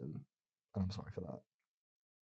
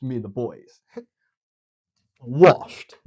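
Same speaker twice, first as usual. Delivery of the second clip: laughing brag; 3 semitones higher, 11 dB louder, much slower than usual. Real, not acted. Bragging about the music round.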